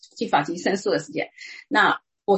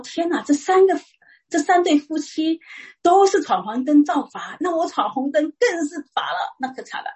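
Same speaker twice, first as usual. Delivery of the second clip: anxious inner thought; 6 semitones higher than usual. Retold or imitated. A woman in court fearing a heavy fine, worried and high-pitched. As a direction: dread building as she watches the others fined. Dreading her turn in court.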